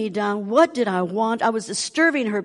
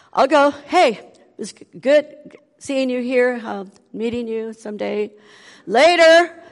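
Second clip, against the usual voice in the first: eager brush-off; 3 semitones higher, 5 dB louder than usual. Retold or imitated. Hurrying the visitor out.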